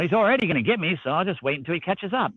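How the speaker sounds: quick, mocking retelling; mock the careless excuse, fast; mocking her logic. Quoting the speeding driver's excuse with mockery. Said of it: "you're just like".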